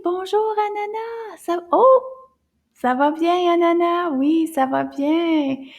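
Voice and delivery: high, loud, bright puppet voice; squeaky little puppet answering. Acted. Teacher voicing the puppet Anana in a high voice.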